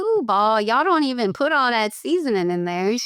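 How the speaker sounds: playful Cajun complaint; Cajun banter. Acted. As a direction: tease them in a Cajun accent. Joins mock Cajun food routine.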